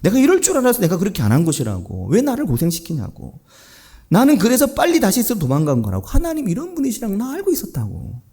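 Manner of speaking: mildly heated acted protest; accusing retort, building as it goes; Jonah's embittered outburst. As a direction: blurt out a grievance at God, pitch climbing. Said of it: "악에 맞힌 듯이 막 튀어나오는 겁니다".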